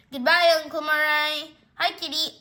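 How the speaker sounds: lightly called farewell. Acted. Owners seeing uncle off, lightly sing-song. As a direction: sing out the goodbye, then greet the cat. Owners calling goodbye and hello.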